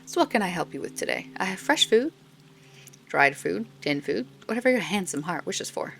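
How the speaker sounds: lightly hammed-up old woman charming a customer; old stall woman. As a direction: coo at the customer like a doting old vendor. Old stall woman voiced in game.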